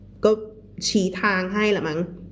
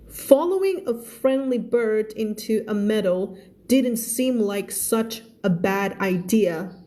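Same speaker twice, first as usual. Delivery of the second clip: very slow, careful story reading; measured storybook narration with long-held words; story read-aloud; much slower than usual. A narrator's reading. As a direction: read each phrase out slowly for learners.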